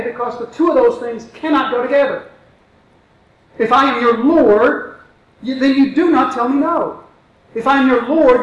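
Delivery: lightly voiced Jesus, bemused by Peter; perplexed Jesus.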